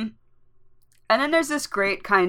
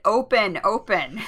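a mild retold yell, slightly raised; half-hearted impatient shout at a door; mock yell; 3 semitones higher than usual. Exasperated wizard yelling at the stuck door, mildly mock yell. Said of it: "Then he just yells at it".

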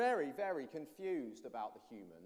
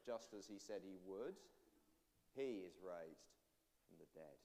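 hushed awe; 9 semitones lower, 13 dB quieter than usual. Acted. Hushed climax of the resurrection question.

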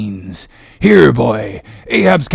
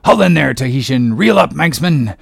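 moderately raised commanding voice; called orders; 3 semitones higher, 4 dB louder than usual. Acted. Captain orders sailors to haul in, firmly raised voice. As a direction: call it out to the deckhands.

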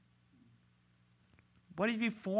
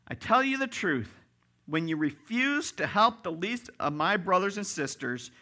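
raised, higher preaching declaration; forceful scriptural reply; emphatic verdict; 6 semitones higher, 4 dB louder than usual. Acted. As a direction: pronounce it as a firm verdict. Acts out the Lord's solemn reply.

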